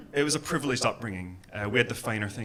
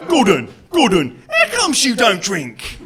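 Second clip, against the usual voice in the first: loud, higher mock English whine; English people asking; 11 semitones higher, 12 dB louder, slower than usual. English people pestering Gordon about not drinking, mock nagging. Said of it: "it's always like".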